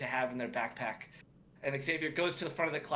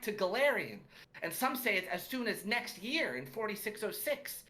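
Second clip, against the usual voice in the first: higher-pitched eager elf pupil; young elf student; 6 semitones higher than usual. Acted. Young elf answers the teacher from the front row, higher voice. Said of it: "it's a young elf, uh, sitting in the front".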